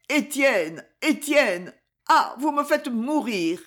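put-on high-pitched, distressed old mother; anguished plea. A narrator's reading. Anguished mother pleads with her son. (supplication angoissée, voix aiguë)

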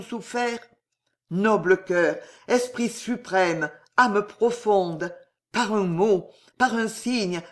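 the count kneels and prays to the abbé, solemn; solemn invocation. Acted. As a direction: call on a lost father, lightly fervent.

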